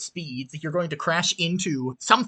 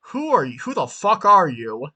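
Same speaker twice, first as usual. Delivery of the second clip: tall guy's demand; 5 dB louder than usual. Acted. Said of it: "And he's like".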